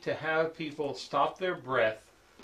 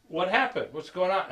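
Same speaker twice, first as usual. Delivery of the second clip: higher-pitched startled questions; imitated alarm, pitched up; alarmed questioning; 5 semitones higher, 3 dB louder than usual. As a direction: act out a worried father. Father alarmed by son's arrival.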